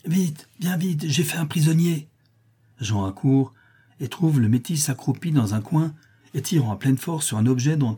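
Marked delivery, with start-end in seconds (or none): 0.1-2.1 calling a friend over with delight; joyful call. A narrator's reading. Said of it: "lointaine, un peu étouffée mais joyeuse".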